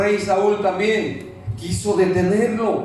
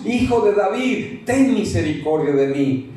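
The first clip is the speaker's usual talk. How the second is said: pleading call, less force; first plea. Acted. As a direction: call out once, holding back a little. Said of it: "Él levantó la voz".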